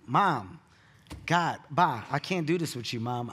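loud fed-up brush-off; exasperated. Retold or imitated. Cutting mom off in loud exasperation. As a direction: throw up your hands and hang up. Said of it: "And I'm like".

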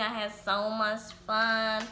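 mocking repeat of his text; incredulous echo. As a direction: throw the words back in disbelief.

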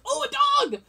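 high, laughing oh a dog; delighted. Retold or imitated. Suddenly spotting a dog at a funeral, high laughing squeal.

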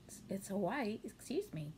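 talking through hiccups; words broken by a hiccup. Real, not acted. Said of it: "Got the hiccups now".

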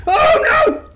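high, loud wail of dismay; alarmed cry. Real, not acted. Player in trouble in a game, alarmed cry.

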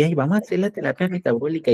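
a doctor suddenly won over, lightly mocked; mocking converted doctor. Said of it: "entonces ahí sí".

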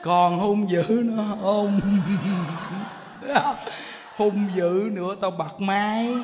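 slow, drawn-out mock warning; teasing threat. Monk returns to warn the cranky woman, slow teasing threat. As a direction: stretch the warning out with amused menace.

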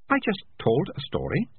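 understated calm, unruffled. A narrator's reading. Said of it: "said Melicia calmly".

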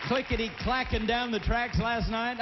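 excited. Acted. Host hyping the train song.

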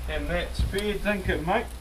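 slow, lightly Australian drawl; a hint of Australian, half-joking; Australian accent. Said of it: "starting to sound like an Australian".

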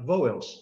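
"Vowels" run together as a single syllable; English "Vowels" as one falling syllable. Shown as a demonstration. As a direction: glide through "Vowels" in one beat. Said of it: "é uma sílaba só".

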